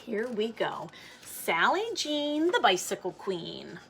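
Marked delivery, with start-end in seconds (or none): 1.2-3.8 title read aloud. A narrator's reading. Reads the book title aloud.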